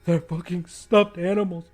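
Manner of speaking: building from loud to high near-shriek; losing it, voice climbing in terror; panicking, sobbing. Acted.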